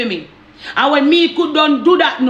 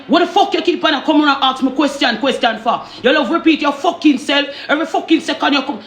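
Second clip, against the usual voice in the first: raised-pitch retelling of his rant; imitated irritation; 4 semitones higher than usual. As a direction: mimic a fed-up partner, higher in pitch. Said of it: "why are you getting so irritating".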